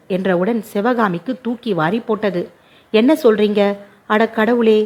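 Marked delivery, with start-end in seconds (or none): none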